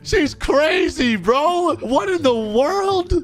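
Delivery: high, stretched-out alarmed yell; panicked shouting. Acted. Bystander yelling at police to tase that woman, panicked shouting. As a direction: cry out high, appalled and panicky. Acting out panic during an arrest.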